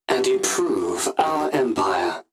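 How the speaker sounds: slow, rising villainous cry; slow gloating exclamation; fervent cry. Acted. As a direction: relish the words as you cry them out. Sith gloating over punishing traitors.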